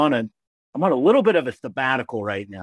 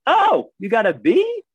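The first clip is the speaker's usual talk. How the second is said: higher, slow, hopeful mom voice; mom mishearing; 12 semitones higher, 3 dB louder, slower than usual. Retold or imitated. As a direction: play the mom relieved, drawn out.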